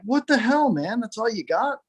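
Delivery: lightly acted, high-pitched letdown; exasperated owner. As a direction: complain to the dog in disbelief. Owner scolds dog after lost bet.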